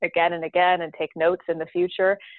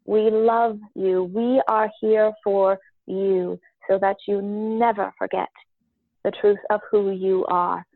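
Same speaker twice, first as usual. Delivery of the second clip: channeled council voice. Acted. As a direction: speak as a wise collective spirit. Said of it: "So my voice changes a little bit".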